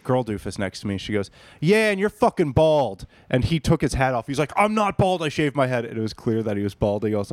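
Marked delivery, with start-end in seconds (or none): 1.6-3.1 higher, lightly imitated taunt; mock jeer. Girl heckles the drunk bro at the bar, mock jeer. 4.6-5.8 high-pitched imitated protest, easing down; mock indignant denial. Drunk bro denies he is balding, mock indignant.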